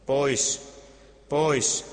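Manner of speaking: read-aloud mock crowd yell of pois; crowd shout. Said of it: "Juutalaiset huusivat".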